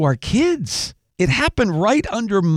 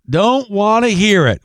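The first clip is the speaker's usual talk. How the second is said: put-on Southern accent; 3 semitones higher, 4 dB louder than usual. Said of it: "with that distinctive Southern accent".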